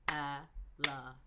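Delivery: slow and drawn out. Shown as a demonstration. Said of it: "hear the beginning and end".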